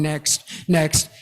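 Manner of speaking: "Next, next." said low, flat and soft; bored, unchanging "Next, next."; monotone "Next, next.". Shown as a demonstration. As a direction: drone "Next, next." with no rise or fall. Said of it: "keeping the same tone".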